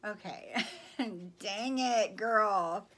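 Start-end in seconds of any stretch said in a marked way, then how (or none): 1.4-2.9 much louder, overwhelmed by the gift; emotional exclamation. Real, not acted. Vlogger overwhelmed by her friend's card, loud emotional outburst. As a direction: blurt it out, moved and teasing.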